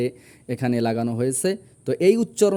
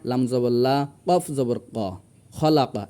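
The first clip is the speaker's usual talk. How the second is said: all spelled together; 3 semitones lower than usual. Shown as a demonstration. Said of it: "একসঙ্গে উচ্চারণ করে একসঙ্গে বলবো না".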